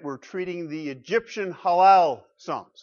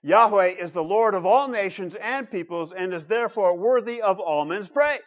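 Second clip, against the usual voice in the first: measured repeat reading; deliberate reading aloud, a little less forceful; slow reading; 3 semitones higher, 3 dB louder than usual. Real, not acted. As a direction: read the verse out steadily for listeners. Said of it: "I'll read it slowly".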